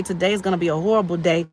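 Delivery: quick, glum mumbled forecast, acted; negative self-talk. Speaker voicing someone waking up to a bad day, quick and dismissive. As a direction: write the day off in a hurry. Acts positive versus negative morning attitude.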